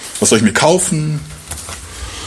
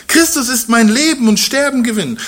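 higher, fervent apostle; Paul's fervent voice; 8 semitones higher than usual. Retold or imitated. Preacher voices Paul's confession, raised and fervent. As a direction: lift the voice as Paul rejoicing. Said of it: "Vers einundzwanzig".

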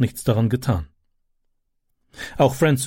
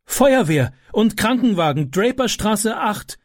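higher, firm urgent mother; a mother reporting a fire, slowing on the address; mother calling it in; 9 semitones higher, slower than usual. A narrator's reading. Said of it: "rief sie".

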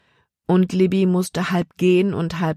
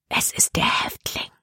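unvoiced, hushed and softer; whisper; 4 dB quieter than usual. A narrator's reading. Libby telling Caleb who the bandit is, whispered. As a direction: breathe it so the bandits can't hear. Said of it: "flüsterte sie Caleb zu".

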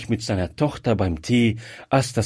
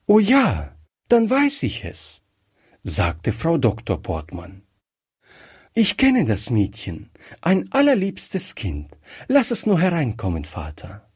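a higher, bright-toned daughter's voice, quick; delighted daughter, fond; 3 semitones higher than usual. Acted. Daughter asks her father to let the girl in, higher and fond. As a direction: gush a little about a sweet child.

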